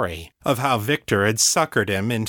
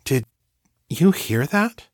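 asking in disbelief, voice jumping up; higher, slowed, astonished; startled; 5 semitones higher than usual. Acted. Daniel hears dead friend's voice.

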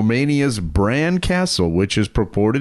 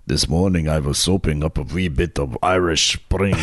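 put-on a Russian accent that slides toward Irish; Russian accent, asked for by the host; 4 semitones lower than usual.

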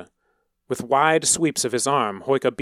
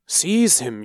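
higher, louder command; barked order; 5 semitones higher, 4 dB louder than usual. A narrator's reading. Priest orders his soldiers to seize him, loud command. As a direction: snap the order at frightened men. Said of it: "he ordered the soldiers".

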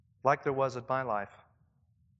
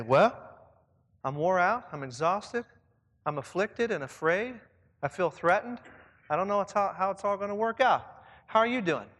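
Paul's candid answer; 3 semitones higher, 5 dB louder than usual. Acted. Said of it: "He would say".

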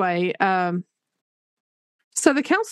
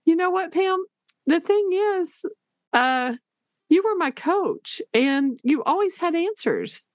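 a higher, gentle voice for the counselor; 8 semitones higher, slower than usual. Retold or imitated. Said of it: "And then she said".

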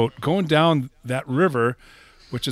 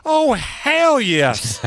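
higher, slow, relishing hell yes; gleeful promoter; 8 semitones higher, much slower than usual. Retold or imitated. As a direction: savour the admission.

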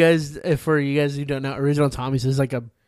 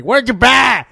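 nosy cashier; 9 semitones higher, 10 dB louder, slower than usual. Retold or imitated. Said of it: "the Hicks are like".

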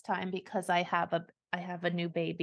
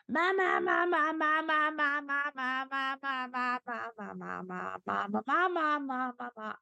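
put-on high babbling baby voice, mama over and over; imitating baby babble; 4 semitones higher than usual. Dad imitating his baby son's babbling. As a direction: babble like a nine-month-old. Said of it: "but he does go".

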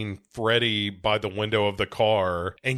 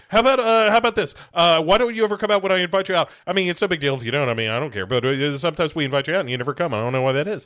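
mock wired rambling; 4 semitones higher, 4 dB louder, much faster than usual. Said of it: "He's like".

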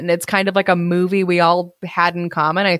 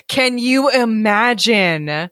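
slow, laughing question; can you imagine, said while laughing; laughing disbelief; slower than usual. Real, not acted. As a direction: giggle through the question. Laughing at the casting idea.

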